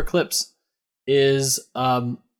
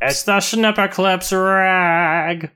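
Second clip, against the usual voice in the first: 1950s narrator; 6 semitones higher, 3 dB louder, much slower than usual. Pretend. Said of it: "vaudevillian guy".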